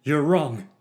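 loud, high angry bark; barked retort. A narrator's reading. Narrator to Ananias, a loud angry bark. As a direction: snap back hard. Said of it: "I barked back".

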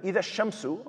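إِذَا الشَّمْسُ lifted high and held as an image; lifted recited phrase. Shown as a demonstration. Teacher leading students through the verse, lifted recitation. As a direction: raise the pitch on إِذَا الشَّمْسُ to paint the picture. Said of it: "okay, you think of Shams".

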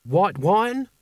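put-on high, pampered old potentate; old sultan voice. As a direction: ask like a thirsty sultan. Creosote voiced by narrator.

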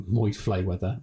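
"Moy Flayweather" with the sounds of Floyd Mayweather swapped; botched name. Real, not acted. Asking his friend about stopping a boxer, tongue-tied on "Moy Flayweather". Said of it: "Awful English".

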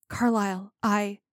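hesitant start that breaks off; mildly hesitant storybook dialogue. A narrator's reading. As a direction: falter after the name, unsure. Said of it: "Edward hesitated".

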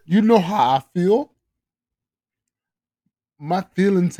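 a lightly put-on Canadian accent reading a text, mostly near normal voice; dramatic reading in a hammed-up Canadian accent with little change of pitch; mock Canadian accent. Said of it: "With a Canadian accent".

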